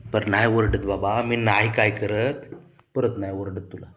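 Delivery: slow, gentle reassurance; drawn-out calming promise; slow soothing. Real, not acted. Owner promising his dog he won't scold, slow soothing voice.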